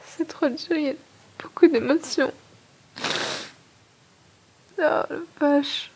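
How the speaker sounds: tearful, slowing to a sob; breaking down through the words; crying. Real, not acted. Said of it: "j'aime pas parler quand je renifle". (en pleurs)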